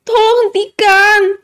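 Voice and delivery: high, slow drawn-out begging; wailing high plea; desperate plea. A narrator's reading. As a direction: beg them to stop, stretching the words. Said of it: "mohon Nara".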